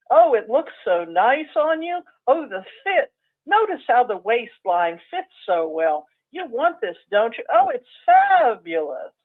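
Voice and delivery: tempting salesperson. Retold or imitated. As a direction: sweet-talk a customer into the coat. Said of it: "they're doing sales on you".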